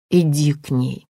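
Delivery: like a whisper in his mind; whispery telepathic voice. Acted. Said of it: "Голос раздался в голове". (шёпот в голове)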